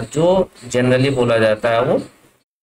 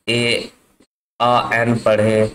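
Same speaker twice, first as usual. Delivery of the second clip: slow spelled-out demo; much slower than usual. Shown as a demonstration. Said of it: "इसके sound के बारे में बहुत चर्चा".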